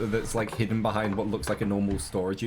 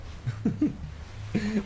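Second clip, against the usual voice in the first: high giggle; 10 semitones higher, 3 dB quieter than usual. Real, not acted. Laughing at own remark.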